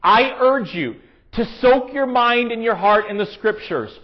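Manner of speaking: deliberate read-aloud, sinking on the last word. Acted. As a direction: read the quote out with weighty pauses. Reads a book passage aloud.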